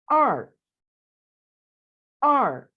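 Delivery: आर falling sharply from high; teacher modelling the Chinese word आर for two. Shown as a demonstration. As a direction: snap आर down from high. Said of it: "टू को Chinese में आर कहते हैं".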